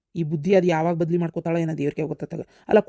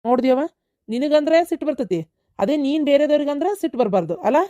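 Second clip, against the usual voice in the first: higher, pointed reproach; heated retort; 6 semitones higher than usual. Acted. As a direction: turn her words back on her. Son retorting to mother.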